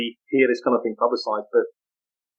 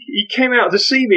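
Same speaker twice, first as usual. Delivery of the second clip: ordinary talk, nothing marked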